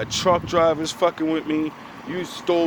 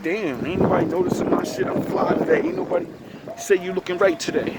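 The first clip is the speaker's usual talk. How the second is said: self-pitying whine; 4 semitones higher than usual. Retold or imitated. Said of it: "I be like".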